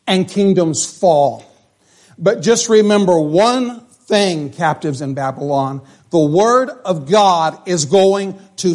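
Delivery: slow, emphatic, rising sermon cadence; building preaching. Acted. Pastor preaching to the congregation, slow and emphatic. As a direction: drive each kingdom line home slowly.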